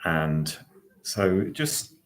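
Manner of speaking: measured guiding voice with long pauses; guided meditation. Acted. Host settles online listeners into their chairs, guided meditation. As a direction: guide listeners into posture, phrase by phrase.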